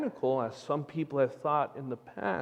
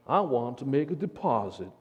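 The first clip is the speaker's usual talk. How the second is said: bad cowboy accent. Cowboy to bank manager, bad Texas accent. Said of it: "Terrible accent".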